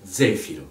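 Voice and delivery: Zefiro with a rolled R and an open O; Zefiro, rolled R, open O, stress on ze; Italian, rolled R. Shown as a demonstration. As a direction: roll the R in Zefiro, open the final O. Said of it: "en roulant le R et avec un O ouvert".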